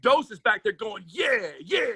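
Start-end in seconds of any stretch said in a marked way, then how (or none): 1.1-1.9 cheering shout. Retold or imitated. Dose cheering from the back.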